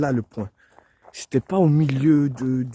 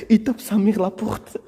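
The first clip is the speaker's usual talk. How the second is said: excited; 8 semitones higher, 5 dB louder, slower than usual. Real, not acted. Excited about the loud door bang.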